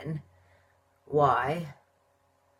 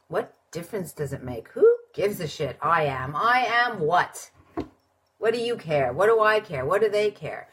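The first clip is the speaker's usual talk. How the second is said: mock skeptic; 3 semitones higher, 4 dB louder than usual. Voicing the doubter who asks who cares, lightly scornful. Voices a dismissive inner skeptic.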